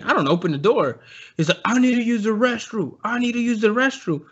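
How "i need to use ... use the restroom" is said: higher, insistent retold plea; imitated pleading stranger. Drunk stranger begs to use the restroom, imitated pleading. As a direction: mimic the pushy man at the door.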